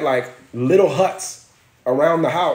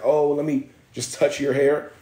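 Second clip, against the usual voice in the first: mock white woman.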